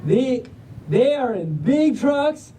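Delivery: Southern storybook drawl with lingering vowels. Acted. Reader gushing over adorable pups in trucks, Southern drawl. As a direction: stretch it out, folksy and Southern. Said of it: "but in a Southern drawl".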